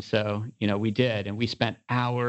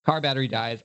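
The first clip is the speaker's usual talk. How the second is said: ordinary delivery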